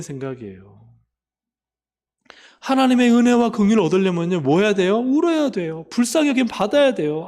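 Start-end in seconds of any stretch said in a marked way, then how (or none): 2.6-7.3 higher and louder, full preaching force; fervent preaching. Real, not acted. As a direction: drive the point home to the congregation. Pastor rises to fervent preaching.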